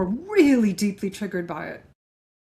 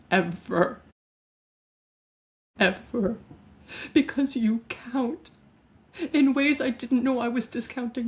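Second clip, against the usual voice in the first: tearful apology. Acted. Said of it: "I'm starting to tear up".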